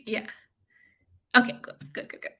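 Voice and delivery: ordinary delivery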